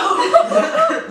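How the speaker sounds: high, loud burst of laughing sobs; hammed-up sob breaking into laughter; mock sobbing. Maid of honor choking up at the microphone, mock sobbing. Retelling her sob at the speech.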